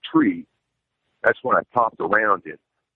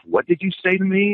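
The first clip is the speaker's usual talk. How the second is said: mock shocked aunt, much higher; imitating aunt; 10 semitones higher than usual. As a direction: play the offended aunt on the phone. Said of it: "And she says".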